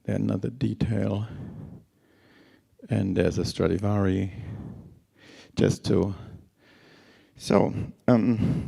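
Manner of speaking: tired, scratchy voice after a long flight; hoarse, worn-out speaking voice. Real, not acted. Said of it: "sorry about my scratchy voice".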